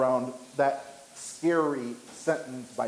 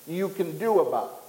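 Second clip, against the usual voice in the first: slow, raised, stretched-out proclamation; mock lion's roar; 4 semitones higher than usual. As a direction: proclaim it slowly as a boastful roaring lion. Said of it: "A loud one who is roaring".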